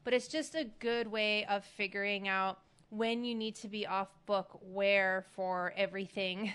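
usual speaking voice

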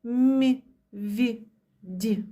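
Лі, Мі, Ві, Ді said light and soft, fading away; soft as feathers. Shown as a demonstration. Teacher showing soft consonants to children, light and gentle. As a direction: let the soft sounds float like little feathers. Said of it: "як пір'їнки".

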